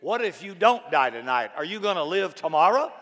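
loud, playful nudge; a lightly voiced Jesus ribbing a worrier; teasing Jesus. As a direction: chide him like a friendly coach. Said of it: "I think Jesus would say".

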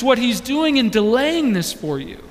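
usual speaking voice

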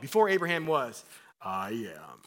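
imagined Jesus voice. Retold or imitated. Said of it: "Can you imagine Jesus' voice".

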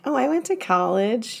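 a hint of upstate New York on college; upstate New York accent. Friend admitting her upstate New York accent. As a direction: let the upstate New York vowels slip out. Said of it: "until I say something like".

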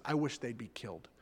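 soft, breathy whisper; whispered menace. Retold or imitated. Malfoy wishing harm on classmates, whispered. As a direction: hush it like a nasty secret. Malfoy's nasty line retold.

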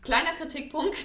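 choking on a drink. Real, not acted. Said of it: "Er verschluckt sich an seinem sehr guten Bier".

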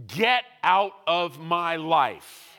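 loud, forceful command; preacher rebuking sickness; commanding rebuke. Acted. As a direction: order it out, building each line. Preacher rebukes loudly, repeated commands.

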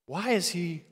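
hushed, slow aside in confusion; very soft, baffled murmur; puzzled disciple. Retold or imitated. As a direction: ask it under your breath, bewildered. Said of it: "coming up beside him and being like".

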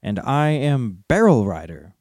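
proud little hobbit, riddling. Acted. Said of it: "went on Bilbo".

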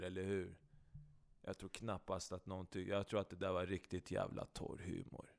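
very quiet, low, withering praise; deadpan sarcasm. Acted. Unamused partner answering the silly song, quietly sarcastic. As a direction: drop to a dry, unimpressed murmur. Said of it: "du är sarkastisk till mig".

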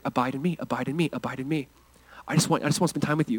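low, hushed and tender; gentle plea. Acted. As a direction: speak softly, as Jesus inviting someone close. Voicing Jesus' gentle plea to listeners.

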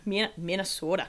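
playful Minnesota pronunciation; Minnesota accent. Shown as a demonstration. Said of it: "that's how I have to say it".

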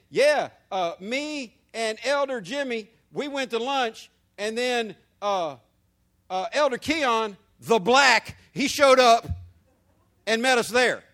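mock chatty tale with "the black" said loud; pretend casual story. Pastor pretending to tell a lunch story, casual and hammed-up. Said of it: "if I was saying".

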